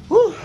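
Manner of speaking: a winded whoop; breathless whoop. Real, not acted. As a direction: blow out a whoop while catching breath. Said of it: "Hiningal ako". (hingal na sigaw na woo)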